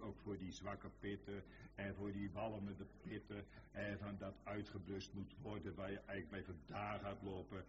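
low, steady preacher voicing God; reassuring divine speech. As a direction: speak comfort in a low, even voice. Voices God reassuring the believer.

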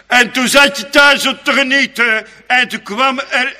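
high, loud burst of worldly noise; loud mock revelry. Preacher to congregation, a loud high mock burst. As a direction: belt out the intrusion of worldly din.

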